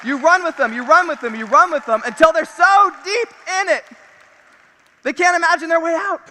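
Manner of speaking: rising from firm to shouting; building shout. Real, not acted. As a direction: build it up until you shout.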